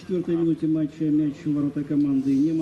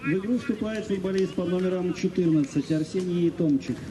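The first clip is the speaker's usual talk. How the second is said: echoing PA goal announcement; formal call over stadium speakers; echoing stadium announcer; 8 semitones higher, 13 dB louder than usual. Acted. (объявление диктора стадиона)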